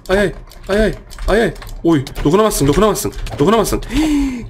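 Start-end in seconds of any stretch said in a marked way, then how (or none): 3.9-4.5 sharp high gasp; shocked gasp. Real, not acted. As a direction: gasp at being robbed. Kill gets stolen in game. (şaşkınlıkla nefesini içine çekme)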